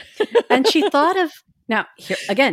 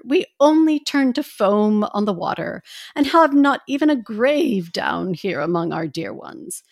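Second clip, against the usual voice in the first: put-on old lady voice. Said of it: "You want me to do the old lady voice?".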